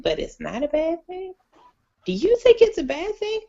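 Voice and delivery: high, questioning reference caller; quoted caller. Retold or imitated. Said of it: "she said".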